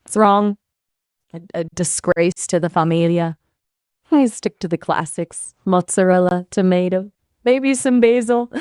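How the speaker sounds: light, hammed-up Italian accent. AI asked by streamer for opinion, light mock Italian accent. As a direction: play it like a cartoon Italian chef, lightly. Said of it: "opinion about pineapple on pizza in an Italian accent".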